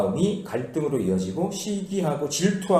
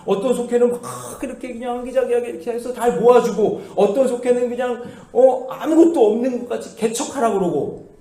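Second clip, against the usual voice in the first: offended member; 7 semitones higher, 3 dB louder than usual. Retold or imitated. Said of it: "이런 말 들으면 기분 나쁜 거예요".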